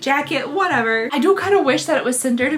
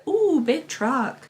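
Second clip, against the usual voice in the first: slow lightly voiced creepy toy; a hint of a creepy robot toy; Furby voice; 2 semitones higher, much slower than usual. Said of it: "and it said".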